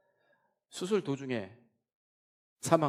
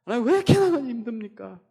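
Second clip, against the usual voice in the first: high, loud anguished cry to God; demanding of God; 10 semitones higher, 9 dB louder than usual. Retold or imitated. Believer crying out to God in hardship, loud anguished demand. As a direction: cry it out like a challenge to heaven. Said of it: "막 따지는 거예요".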